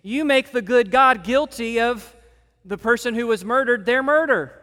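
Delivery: loud, high indignant retort; snapping back. Retold or imitated. Poirot snapping back at Hastings, loud and indignant. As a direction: snap back in offended protest. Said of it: "Poirot snaps back at him".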